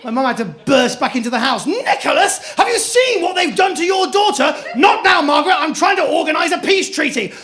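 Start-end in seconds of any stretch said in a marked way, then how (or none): 1.7-4.5 high, loud outraged yell; frantic shout. Retold or imitated. Mum bursts in shouting. 4.7-7.3 loud, high snapping reply; exasperated shout. Retold or imitated. Dad shouts back.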